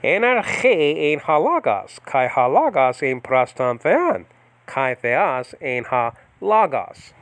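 slow, careful Koine Greek recitation; old-style Greek with a hard a in halagas; biblical Greek pronunciation. Shown as a demonstration. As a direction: Enarche en halagas read slowly, every syllable drawn out. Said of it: "biblical pronunciation first".

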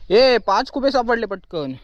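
high, drawn-out call; calling out a find. Real, not acted. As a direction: call the good news over to a friend. Calling news of find to companion.

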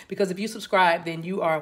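winded, short of breath. Real, not acted. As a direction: speak as if you ran out of air. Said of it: "why did I run out of breath?".

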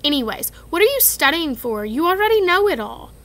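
Ron voice. Acted. Ron asking Hermione.

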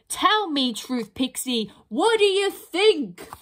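slow, rising troll question; probing troll. Acted. Troll asks the pixie what she thinks, slow and probing. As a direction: lean in and ask, drawn out.

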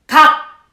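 각 loud with the k cut off short; blocked final k. Shown as a demonstration. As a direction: shut 각 off hard at the end. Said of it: "딱 막히게 되죠".

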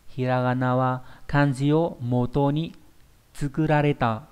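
slow, careful model sentence for learners; slow example sentence. Shown as a demonstration. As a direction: read the Japanese example slowly and clearly. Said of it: "chúng ta sẽ có thể nói như thế này". (đọc câu ví dụ chậm rãi, rõ ràng)

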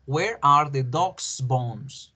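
slow demo with "dog's" said /doks/; singular possessive again. Shown as a demonstration. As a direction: model "dog's" slowly with one s sound. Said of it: "¿Cómo pronunciaría yo esa primera oración?".

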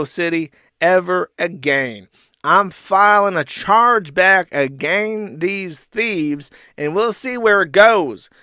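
loud, slow mock indignation; Ethan Ralph. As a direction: declaim it as an outraged customer. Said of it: "and then he says".

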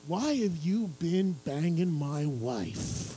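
slow, menacing deadpan; mock dead serious; deadpan Zach. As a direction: drop it flat and slow. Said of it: "and he goes".

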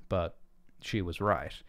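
plain reading voice

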